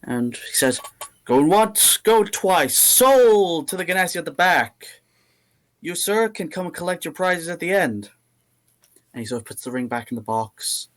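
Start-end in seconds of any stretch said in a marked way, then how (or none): 1.2-8.1 loud, high auctioneer's patter. Acted. The GM voices the auctioneer closing a sale, loud and high. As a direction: rattle off the bids like an auctioneer.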